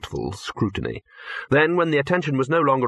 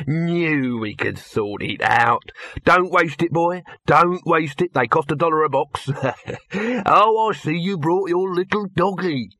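higher, excitable wheeler-dealer voice; brash hustling producer; 6 semitones higher than usual. Acted. Dibbler seeing Victor out, high brash showman voice. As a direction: push it out brightly with a chuckle.

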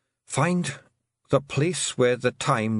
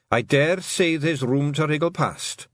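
ominously calm; 7 semitones higher, 3 dB louder, slower than usual. A narrator's reading. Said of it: "in the kind of calm voice".

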